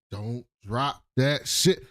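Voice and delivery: slow, deliberate mock warning. Black Bush warns about the cake, slowly cautioning. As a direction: space out each word of the warning.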